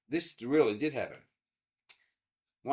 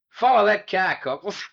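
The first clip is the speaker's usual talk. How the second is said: excited command; 6 semitones higher, 8 dB louder than usual. Retold or imitated. Charlie urging the driver.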